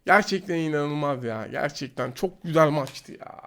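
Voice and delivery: low, soft and slow letdown; deflated. Real, not acted. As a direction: sigh it out after losing. Deflated after losing the fight. (hayal kırıklığıyla, alçak sesle)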